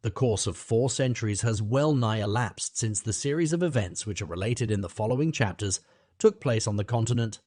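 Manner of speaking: grand, rolling book-reading voice; sonorous reading. A narrator's reading. Pompous auctioneer reads the novel's opening aloud, sonorously. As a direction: read it as if to a hall, savouring each word. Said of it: "he began sonorously".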